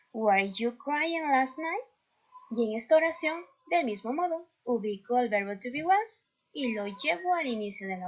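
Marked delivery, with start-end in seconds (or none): 0.1-1.8 slow, careful English question; teacher modelling a question to the class slowly; slow model reading. Shown as a demonstration. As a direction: spell it out slowly for learners. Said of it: "teacher reads example question".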